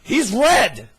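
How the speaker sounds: high, loud anxious bird voice; worried cuckoo bird. Acted. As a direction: fret like a nervous bird.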